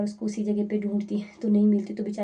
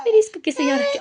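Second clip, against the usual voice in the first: exclaiming high; 12 semitones higher, 12 dB louder than usual. Real, not acted. Mother fussing over sleeping baby.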